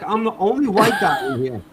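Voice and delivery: high, loud, cracking up; helpless laughing retelling; laughing disbelief. Retold or imitated. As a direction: squeal it through laughter as the embarrassment builds. Retelling his embarrassment, cracking up.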